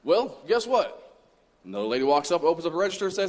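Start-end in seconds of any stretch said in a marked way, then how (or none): 0.0-1.2 higher and slow, teasing; teasing setup. Acted. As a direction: draw out the reveal. Punchline setup to congregation.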